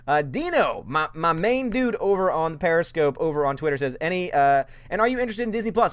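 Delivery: put-on breezy valley girl reading chat. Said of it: "do you like my Valley Girl".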